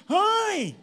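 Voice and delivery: sharp high yell of alarm; retold shout. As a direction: startle a thief in the dark. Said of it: "Ganon, ganon sigaw niya".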